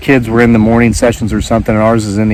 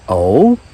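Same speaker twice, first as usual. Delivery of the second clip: oh? with a light questioning rise; inquiring oh. Shown as a demonstration. To a yuppie neighbour, a prying questioning oh. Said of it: "It's the inflection on the word".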